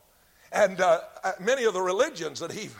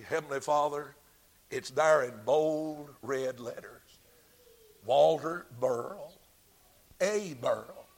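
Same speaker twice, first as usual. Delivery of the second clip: recording angel; 4 semitones lower than usual. Acted. Recording angel reads name to God.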